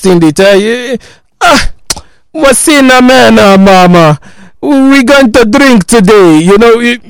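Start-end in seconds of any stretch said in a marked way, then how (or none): 1.4-6.4 put-on South African accent. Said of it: "pardon my, my very terrible, uh, South African accent".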